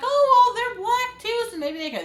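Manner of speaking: sarcastic imitation of someone falling for it; mock naive voice. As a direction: play the gullible listener, a touch hammed up. Mocking naive listener.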